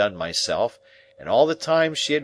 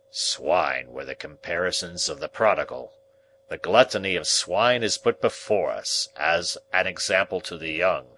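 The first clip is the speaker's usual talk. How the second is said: deepest voice. Acted. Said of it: "in his deepest voice".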